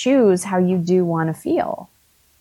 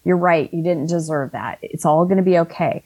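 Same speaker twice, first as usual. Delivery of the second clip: self-comfort. Retold or imitated. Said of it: "energetic hug".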